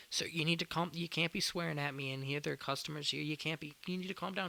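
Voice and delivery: retold high-pitched appeal for calm; exasperated calming down. Acted worker calming angry customer.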